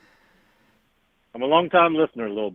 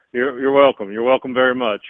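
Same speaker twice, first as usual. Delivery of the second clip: Impression of a singer. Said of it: "this was Elvis Presley".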